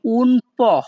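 "po" said as a short po, like Bengali প; Italian "un po", ending on a short po. Shown as a demonstration. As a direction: say "po" cleanly as po, not pio. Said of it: "এখানে পিও এর উচ্চারণ হবে প".

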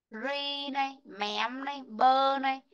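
"Re", "mém", "bơ" set apart one by one; teacher breaking "remember" into three pieces; syllable by syllable. Shown as a demonstration. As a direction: spell out the syllables of remember separately. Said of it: "Cô đọc lại này".

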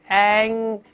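嗯 as a nasal ng held at the back of the tongue; ng sound. Shown as a demonstration. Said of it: "然后舌根拱上去". (舌根拱起发“嗯”)

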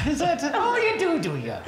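laughing teasing question. Real, not acted. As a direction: tease him through laughter. Host laughing at Irish claim.

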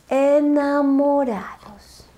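slow secretive whisper. A narrator's reading. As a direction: whisper it tenderly. Whispered ending.

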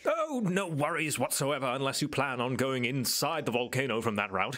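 lightly voiced obliging island local; helpful islander. Island guide answers a visitor's worry about the dark jungle, lightly reassuring. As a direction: reassure as an easygoing native guide, lilting. Game master answers as Clyde.

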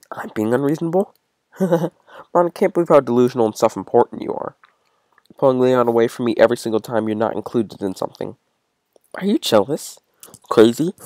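menacing, mocking yandere voice; cold, unhinged cruelty; unhinged yandere girl. Voices Yuri snapping.

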